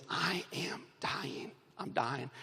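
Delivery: slow, soft dramatized dying words. Retold or imitated. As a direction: draw it out quietly, as if fading. Child burn patient retold as dying.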